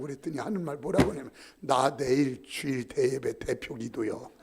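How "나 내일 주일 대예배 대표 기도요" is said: put-on low, slow drunken confession; drunken mumble. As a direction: deliver it slow like a drunk explaining. Drunk elder's punchline. (내일 대표 기도라는 취한 형님의 느린 말)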